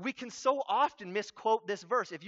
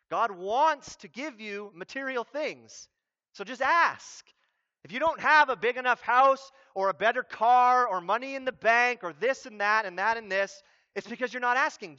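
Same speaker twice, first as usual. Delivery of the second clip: lightly mocked prosperity pitch, building louder; prosperity teacher; 3 semitones higher, 7 dB louder than usual. Preacher mimics prosperity teachers urging people to ask, mounting mock zeal. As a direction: push it loud and higher like a sales pitch. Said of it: "prosperity teachers love to quote".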